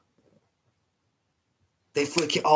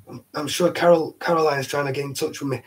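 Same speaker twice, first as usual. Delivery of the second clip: slightly husky, chesty voice; hoarse from a bad chest. Real, not acted. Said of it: "the husky voice".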